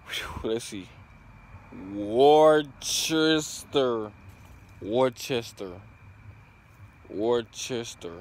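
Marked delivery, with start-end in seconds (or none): 1.9-8.1 Worcester said in full, wor-ches-ter; attempting Worcester. Shown as a demonstration. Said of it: "I think I'm saying that right".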